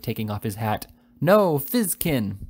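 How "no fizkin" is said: very slow, loud, higher crowd roar. A narrator's reading. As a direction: drag each word out as a jeering mob. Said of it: "roared the crowd".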